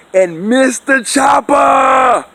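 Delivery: emphatic warning. Acted. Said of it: "emphatic warning".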